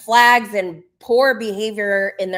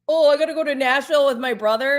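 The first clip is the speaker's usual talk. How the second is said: lightly put-on whiny complaint, higher and rushed; a hint of whiny imitation; mock whining; 4 semitones higher, 3 dB louder, much faster than usual. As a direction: mimic him griping, quick and pitched up. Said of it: "what he was whining about".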